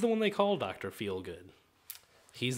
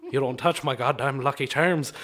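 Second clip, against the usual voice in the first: put-on Irish accent; 2 semitones lower, 3 dB louder than usual. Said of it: "that's my Irishman".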